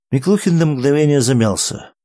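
plain reading voice

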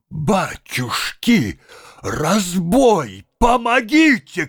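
high, loud screaming for help; cry for help. A narrator's reading. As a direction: scream help like a coward in panic. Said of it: "кричал Тарантьев".

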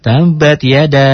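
"Tabat yada" without extra vowel; correct model. Shown as a demonstration. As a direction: say it cleanly, long a only.

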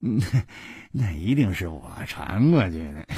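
憋不住笑着打趣; 边笑边说，带着轻笑声; 忍不住笑. Acted. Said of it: "小潘忍不住笑着说". (小潘笑着打趣胡铁花)

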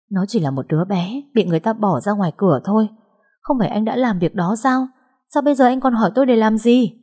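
bitter, then flaring up; bitter retort. Acted. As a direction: throw the question back at him. Angry woman answers ex.

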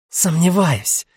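snapping back. Acted. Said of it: "огрызнулась она".

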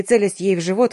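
usual speaking voice

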